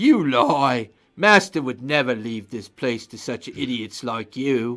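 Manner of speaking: deep, hulking, big fleshy brute creature voice. Voicing a big fleshy construct that steps forward: big fleshy construct voice. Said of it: "the big fleshy construct kinda looks at you ... steps forward and go".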